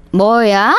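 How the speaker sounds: mother-in-law scolding the daughter-in-law on the phone, indignant; angry mother-in-law. Acted. Mother-in-law snaps back angrily.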